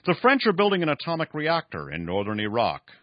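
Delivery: lightly voiced old schemer announcing news; old man Esau. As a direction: give the dying old man his pronouncement. Voices old Esau's line.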